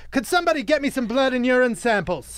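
high-pitched mild mock yell; half-voiced retold scream. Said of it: "Just screams it to no one".

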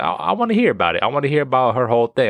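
hammed-up curious excitement; mock eager. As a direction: rush it like you can't wait to hear. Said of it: "So I was like".

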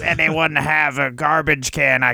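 lightly done mock Australian accent; Michael Hayes in a bad Australian accent. Co-host mocking the wrestler's persona, bad Australian accent. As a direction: slip into a loose, cartoonish Australian accent. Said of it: "The accents are usually bad".

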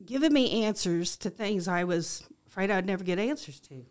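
emotional, heartfelt gratitude; moved, starting strong then easing off; getting emotional. Real, not acted. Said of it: "I get a little emotional here".

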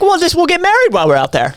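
breezy hammed-up enthusiasm; mock excitement. Recalling how the Vegas trip grew, mock excited pitch.

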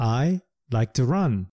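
said slowly and clearly; slow classroom example; slow practice sentence. Shown as a demonstration. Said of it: "センテンスで練習しましょう".

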